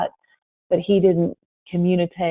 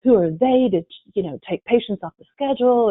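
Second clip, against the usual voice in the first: frustrated; 3 semitones higher, 3 dB louder than usual. Retold or imitated. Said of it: "he called me so frustrated".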